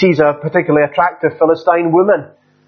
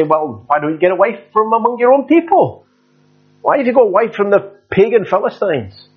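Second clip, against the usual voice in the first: higher, lightly voiced objecting parents; pleading parents; 6 semitones higher than usual. Parents object to son's choice of wife, in a higher pleading voice. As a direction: raise the voice as the worried parents. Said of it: "They say".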